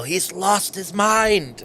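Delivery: half-hearted yell, stretched out slowly. Acted. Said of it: "I yell".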